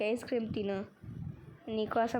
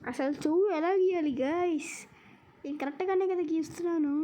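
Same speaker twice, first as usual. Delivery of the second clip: exasperated protest; 6 semitones higher than usual. Real, not acted. Frustrated the game misreads drawing.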